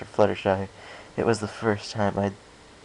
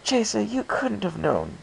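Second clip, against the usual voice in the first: sighed; 13 semitones higher than usual. A narrator's reading. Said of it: "Rarity sighed".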